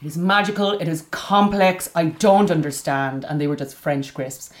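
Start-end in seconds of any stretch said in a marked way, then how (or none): 0.0-3.2 put-on amazed child. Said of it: "I was like".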